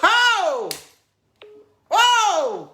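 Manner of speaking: high, drawn-out falling cry of amazement; big scandalised "oh"; shocked exclamation. Real, not acted. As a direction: exclaim in astonishment, sliding down from high. Host reacts to mistress's nationality.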